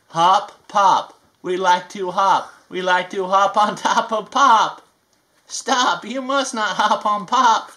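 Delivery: slow, sing-song picture book reading; reading to children. A narrator's reading. Reading a rhyming book to kids, sing-song. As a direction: read each rhyme to a little one.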